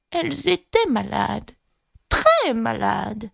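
aigu, très lent sur la fin; Loir insistant. A narrator's reading. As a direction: appuyer doucement en étirant. (Loir traînant, voix aiguë)

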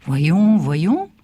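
voyons said loud then trailing off; recovering from surprise. Acted. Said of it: "dit-il enfin".

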